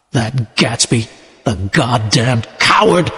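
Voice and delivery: slow, subdued tearful mutter; crying. Acted. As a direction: let Tom's grief pull the words down slowly. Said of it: "Tom cried".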